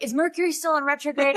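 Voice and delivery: lightly voiced husband teasing; teasing question. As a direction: ask with a knowing tease. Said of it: "he was like".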